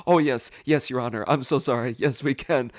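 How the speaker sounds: hurried, placating deference; flustered apology. Retold or imitated. Defendant apologizing to Your Honor, flustered and eager.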